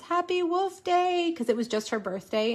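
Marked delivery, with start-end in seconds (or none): 0.0-1.3 high, drawn-out preschooler voice; sing-songy small-child cheer, high and stretched; little daughter's mispronunciation. Retold or imitated. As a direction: imitate a little kid's "Happy Wolf Day", pitched up and slow. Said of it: "that's how she said birthday".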